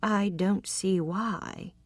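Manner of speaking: slow, wary reply; measured and careful, no commitment; a man wary of her advances; cautious. Acted. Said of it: "he said cautiously".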